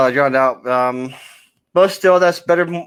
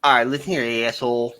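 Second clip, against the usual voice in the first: put-on southern accent; 4 semitones lower, 3 dB quieter than usual. Squaring up to a friend, southern accent. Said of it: "making fun of the southern accent".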